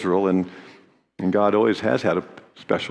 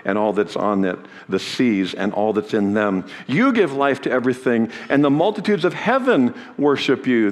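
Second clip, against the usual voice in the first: raised, solemn reading of a prayer; scripture reading; 3 semitones higher than usual. Acted. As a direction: proclaim the prayer of praise. Reads the Levites' prayer.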